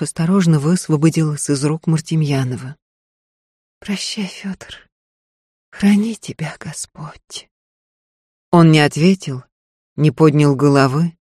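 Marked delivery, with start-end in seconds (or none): 3.8-7.5 soft, slow, barely voiced goodbye; hushed tearful parting; whispered farewell. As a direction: breathe the blessing out. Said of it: "whisper measured".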